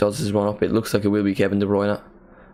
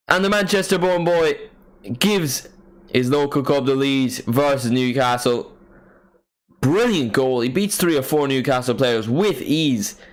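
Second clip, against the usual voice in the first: excited commentary; 3 semitones higher than usual. Real, not acted. Commentating the goal replay.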